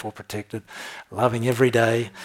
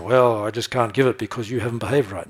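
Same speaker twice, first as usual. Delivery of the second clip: grudging God. Retold or imitated. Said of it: "He's not up there saying".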